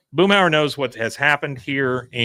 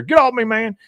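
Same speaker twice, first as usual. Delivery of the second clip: angry redneck; 10 semitones higher, 5 dB louder than usual. Retold or imitated. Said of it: "and you hear".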